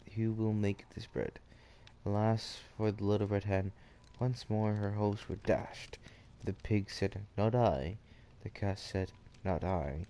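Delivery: measured read-aloud storytelling; story narration. A narrator's reading.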